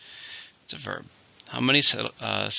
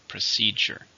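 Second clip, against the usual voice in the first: "Procedure" stressed on "ce"; second-syllable stress; slower than usual. Shown as a demonstration. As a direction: model "Procedure" with weight on the middle syllable. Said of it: "stress is in the second".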